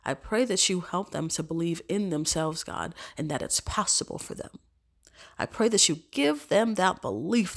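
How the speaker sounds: earnest spoken prayer to God. Real, not acted. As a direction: pray it sincerely, unhurried. Prays aloud to God.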